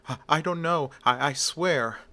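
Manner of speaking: a touch of panic while begging; panicked. Acted. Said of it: "The panicked Johnny Vitti says".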